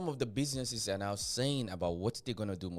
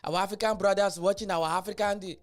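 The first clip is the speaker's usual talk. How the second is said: mock plea; 5 semitones higher, 6 dB louder than usual. Mocking foreigners calling for help.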